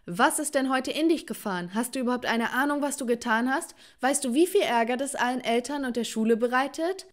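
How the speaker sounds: a touch of an angry boss; exploding at her. Acted. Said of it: "explodierte er geradezu vor mir".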